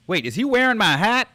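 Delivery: high, loud startled question; surprised soldier. Acted. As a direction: react in shock to the sight. Acting out a soldier's line.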